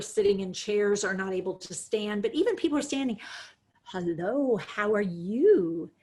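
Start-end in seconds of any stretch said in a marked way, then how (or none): 3.8-5.9 put-on baby-talk voice. Shown as a demonstration. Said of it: "that's the voice we use ... for small babies".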